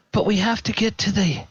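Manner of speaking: first stammered take; high and quick; flustered. Acted. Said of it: "he's like".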